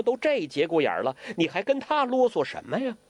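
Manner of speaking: exasperated, hurrying inner complaint; impatient urging. Acted. Huang Rong inwardly urging Guo Jing to leave, impatient. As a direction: press impatiently, pitch climbing at the end. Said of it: "连声催促".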